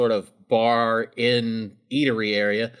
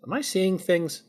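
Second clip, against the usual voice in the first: Kara's voice; 8 semitones higher than usual. Acted. Kara voiced by GM.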